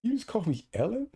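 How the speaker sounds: hammed-up high-pitched outrage; mock outrage. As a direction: shriek in pretend offense.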